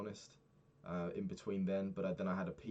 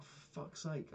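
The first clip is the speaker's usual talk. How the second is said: exasperated; 8 semitones higher, 4 dB quieter, slower than usual. Retold or imitated. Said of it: "I was like".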